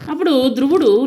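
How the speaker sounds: ordinary delivery, nothing marked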